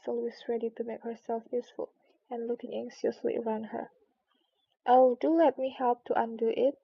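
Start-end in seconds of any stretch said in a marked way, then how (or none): 4.9-6.8 louder, keen offer of help; eager offer. Acted. Alice eagerly offering the mouse help, louder. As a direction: rush to be useful.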